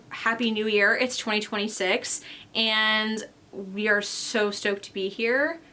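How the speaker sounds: dry, slow sarcastic cheer. Acted. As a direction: fake enthusiasm, flat and slow. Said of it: "she says somewhat sarcastically".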